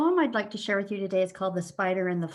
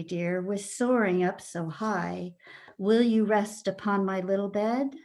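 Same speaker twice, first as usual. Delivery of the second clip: measured, lilting storybook poem reading; poem recitation. Acted. Librarian shares a cautionary poem for children, expressive recitation.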